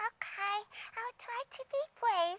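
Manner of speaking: very high, bashful, timid puppet voice. Voicing a shy puppet answering the puppeteer: shy puppet voice. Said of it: "Now make your voice a bit stronger".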